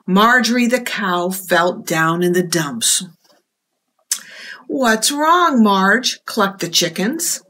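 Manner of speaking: lively picture-book read-aloud; reading to children. A narrator's reading. Librarian reading a storybook to children, lively. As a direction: tell it to the little ones with expression.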